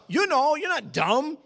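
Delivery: loud, high pulpit preaching; fiery revival preaching; preaching at full force. Acted. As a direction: preach it out to the crowd.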